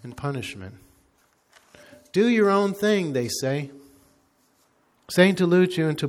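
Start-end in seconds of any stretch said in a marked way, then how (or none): 2.1-3.1 sing-song high mocking of the slogan; mock tempter voice. Preacher mocking the demons' lie, sing-song sneer.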